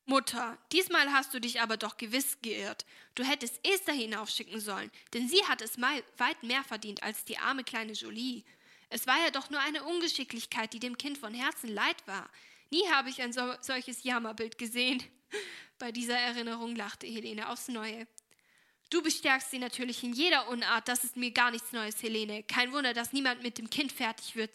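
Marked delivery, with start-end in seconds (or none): 0.1-15.0 indignant. Acted. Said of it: "als Helene ihrer Entrüstung Luft machte". 18.9-24.5 louder, sharp reproach; irritated. Acted. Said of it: "sagte Esther gereizt".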